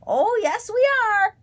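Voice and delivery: high, loud bird caw; cawing crow. A narrator's reading. Old crow defying the scarecrow, loud high caw. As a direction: caw it out gleefully. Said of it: "cawed Grandfather Crow".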